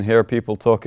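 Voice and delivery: ordinary talk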